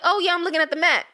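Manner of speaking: high, quick, innocent cover-up. Retold or imitated. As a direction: blurt a too-casual excuse, high and fast. Covering up when caught snooping.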